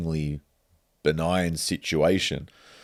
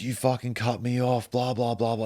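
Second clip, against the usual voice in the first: higher-pitched mock rant at the narrator; imitating an angry driver, lightly; mock angry yell; 7 semitones higher than usual. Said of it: "He's going nuts".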